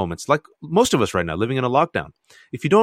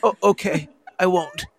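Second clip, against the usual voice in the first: higher, meek little voice; meek giving in; 7 semitones higher than usual. Retold or imitated. Wife meekly promising husband not to cry, higher and meek. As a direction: give in sweetly, like a scolded child. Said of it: "She goes".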